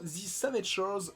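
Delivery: title said with a heavy English accent; anglicised pronunciation of the English title; thick English accent. Real, not acted. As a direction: say it like an Englishman, accent you could cut with a knife. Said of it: "excusez mon accent anglais à couper au couteau".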